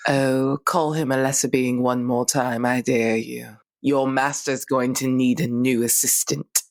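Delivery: low, menacing dare; low threat. Acted. Threatens the villain.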